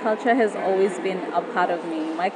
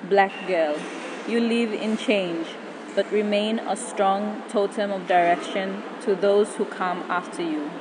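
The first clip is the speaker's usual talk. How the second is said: poem recitation. Acted. Spoken word poem over music.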